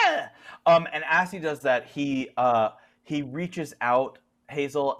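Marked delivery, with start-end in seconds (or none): 0.1-0.3 drawn-out mock cry of a struck man; imitated cry. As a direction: voice the wounded character's cry. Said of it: "And he just goes".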